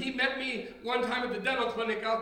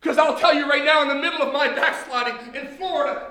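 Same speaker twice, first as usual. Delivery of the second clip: louder, driving preacher call; preaching loud; 6 dB louder than usual. Acted. Preacher building to his congregation, loud. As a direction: lift the room with it. Preacher rising to full force.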